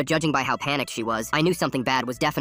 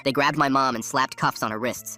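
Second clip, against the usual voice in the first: ordinary delivery, nothing marked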